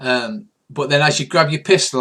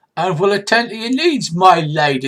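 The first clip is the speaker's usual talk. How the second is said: hammed-up, overdone, pitched-up delivery with a flourish; 5 semitones higher than usual. Game master voices a sword-waving character addressing the player: over-the-top manner. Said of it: "he says in a in an over the top sort of manner".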